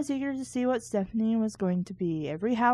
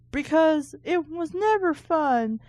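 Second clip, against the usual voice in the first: sarcastic aside; 5 semitones higher, 3 dB louder than usual. Real, not acted.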